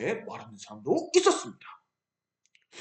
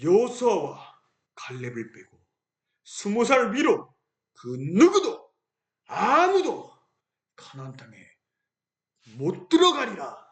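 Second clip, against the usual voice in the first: God declaring judgement on the people; God's decree. Acted. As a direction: pronounce it with grave authority. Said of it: "하나님은 이렇게 말씀하셨어요".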